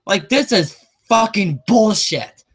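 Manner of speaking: fed-up rant; angry outburst. Real, not acted. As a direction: vent your outrage at the theater chain. Angry rant about ticket prices.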